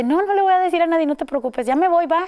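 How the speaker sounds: high, quick mock promise; lightly voiced teenage boy; teasing reassurance. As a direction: act like the older boy brushing it off. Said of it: "Y dice".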